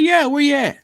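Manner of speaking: high, blunt phone answer; imitating Dad picking up; father answering his son's late call; gruff father. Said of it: "He said".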